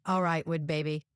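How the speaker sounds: put-on light Southern accent. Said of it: "do a deep Southern accent".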